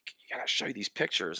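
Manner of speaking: put-on casual Boston street accent, eager young soldier; excited young soldier in a Boston street accent. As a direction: talk like a kid off the streets of Boston. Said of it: "Boston kinda, like, street accent".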